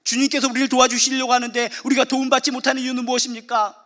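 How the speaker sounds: ordinary talk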